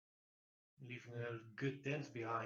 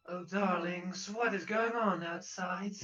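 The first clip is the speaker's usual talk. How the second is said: sultry voice behind door; 4 semitones higher, 4 dB louder than usual. Acted. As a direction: purr it like a lady of the house. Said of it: "a voice can be heard".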